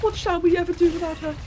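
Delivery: hammed-up mourning. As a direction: overplay the grief, mock tragedy. Hammed-up grief over dead friend.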